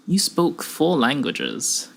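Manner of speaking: slow, measured statement; ominously calm stranger. Acted. Stranger tells researcher his past, calm and ominous. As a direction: lay out facts without hurry. Gray coolly recites Kim's life.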